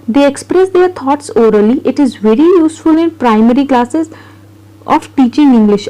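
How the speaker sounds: reading notes aloud very slowly, word by word; slow dictation read. Acted. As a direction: spell it out for students to copy. Teacher reads notes aloud slowly. (धीमी गति से notes पढ़ना)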